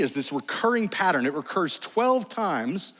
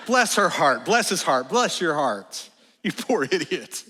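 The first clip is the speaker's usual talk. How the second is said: sweetly condescending Southern lady, lightly done; mock Southern politeness. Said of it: "in the South when people say".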